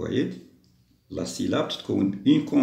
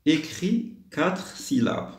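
slow, higher-pitched instruction reading; slow dictation; 7 semitones higher, much slower than usual. Shown as a demonstration. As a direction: read it out very slowly, word by word. Teacher reads out the instruction. (lecture lente de consigne)

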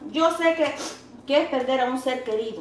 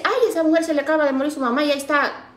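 gossiping tone; 2 semitones higher, faster than usual. Retold or imitated. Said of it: "yo sé que a veces la gente dice".

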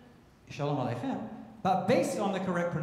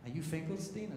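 put-on feeble old man; 9 dB quieter than usual. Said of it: "a feeble man opens up".

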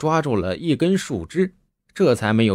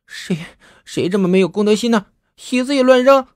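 put-on furious young woman shouting about the shoe; flaring anger; 8 semitones higher than usual. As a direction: blow up at whoever left the shoe. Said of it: "顿时就火了".

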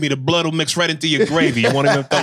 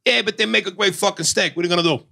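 Italian; 3 semitones higher than usual. Retold or imitated. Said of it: "Italian goes".

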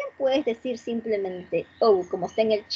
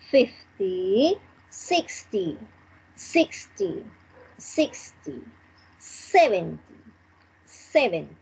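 each ten from "thirty" to "ninety" front-stressed, with pauses between; first-syllable stress. Shown as a demonstration. Teacher drilling thirty to ninety, first syllable stressed. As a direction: lean on the first syllable, "THIR-ty" to "NINE-ty". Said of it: "we are going to emphasize the first syllable".

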